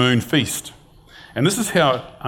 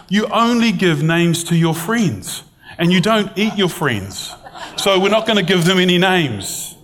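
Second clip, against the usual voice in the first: higher, mock-horrified protest; lightly voiced sister-in-law, higher and appalled; 6 semitones higher than usual. Sister-in-law refusing to name the pigs, mock-horrified and higher. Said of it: "she was horrified".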